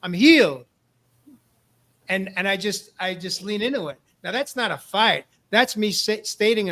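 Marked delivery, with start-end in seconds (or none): 0.0-0.6 raised, exultant mock scream, kept short of full volume; retold scream. Screaming affirmations alone out in the wilderness, retold as a restrained yell. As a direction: imitate screaming an affirmation, louder than your usual talk. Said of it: "I'm screaming things like".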